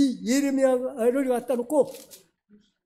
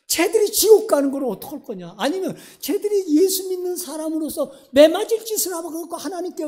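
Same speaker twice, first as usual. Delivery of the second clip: urgent, higher-pitched pleading, lightly acted; 5 semitones higher than usual. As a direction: press him insistently, as God persuading a reluctant prophet. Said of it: "이게 권유야". (다그치듯 간곡하게 설득하는 연기)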